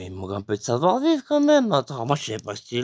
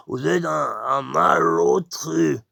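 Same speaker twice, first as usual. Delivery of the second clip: indignant shout; slower than usual. Retold or imitated. Crowd scolds the intruder.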